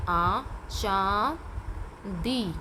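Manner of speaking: चांदी drawn out slowly, syllable by syllable; sounding out. Shown as a demonstration. Teacher sounds out चांदी for children joining letters. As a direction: stretch चांदी as you join its letters. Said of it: "ये है च".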